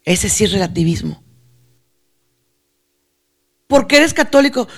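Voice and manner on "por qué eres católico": higher-pitched acted question; probing question. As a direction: quiz the believer, pitched up.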